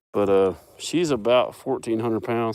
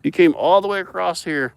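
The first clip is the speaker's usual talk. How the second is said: higher, louder sing-song greeting; excited animal talk; 8 semitones higher, 7 dB louder than usual. Real, not acted. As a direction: greet the cow with delight. Greeting the cow.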